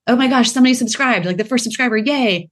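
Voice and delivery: playfully thrilled; mock excitement. Founder retelling her first subscriber, mock excited cheer.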